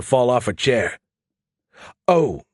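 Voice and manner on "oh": high, mock-innocent "oh"; falsely guileless little exclamation. A narrator's reading. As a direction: feign innocence with a raised voice. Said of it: "Skippy said innocently".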